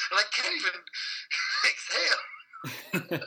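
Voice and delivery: words squeezed out between real laughs; laughing breathlessly. Real, not acted. Guest recalling radio nerves, laughing so hard he can't exhale.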